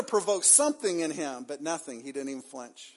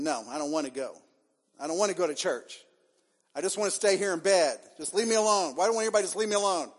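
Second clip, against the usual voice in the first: put-on sulky child's whine rising to a louder protest; mock whiny refusal, building; 3 semitones higher, 4 dB louder, faster than usual. Elijah sulks in the cave refusing God, whiny and building. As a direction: whine like a kid who won't get out of bed, getting louder.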